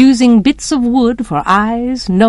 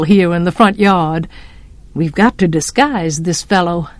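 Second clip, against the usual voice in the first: lightly voiced father teasing his son; mock-grave fatherly verdict, understated; Atticus, amused. Voices Atticus after he laughed.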